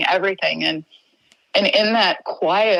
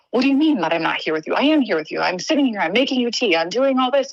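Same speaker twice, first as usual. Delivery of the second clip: defensive protest; 4 semitones higher, faster than usual. Retold or imitated. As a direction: pitch climbing higher with each line. Defending herself to dying husband.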